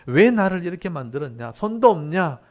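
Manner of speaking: imitating an insolent protest; mock defiant challenge. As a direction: talk back to the maker, accusingly. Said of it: "이렇게 함부로 따질 수 없다고".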